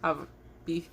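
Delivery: soft unvoiced slip; whispered flub. Real, not acted. Vlogger signing off, whispered slip. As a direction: whisper the fumbled goodbye.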